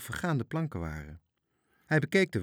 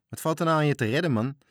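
calling out; 6 semitones higher, 6 dB louder, faster than usual. A narrator's reading. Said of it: "riep Gijs".

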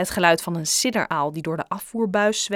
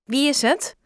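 irritated; 7 semitones higher, 3 dB louder than usual. Acted. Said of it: "vroeg Joe geprikkeld".

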